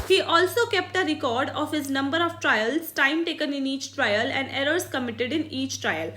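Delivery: slow, careful read-aloud of a textbook line; dictating from the book. Shown as a demonstration. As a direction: read each word out slowly for the class. Reads textbook English aloud.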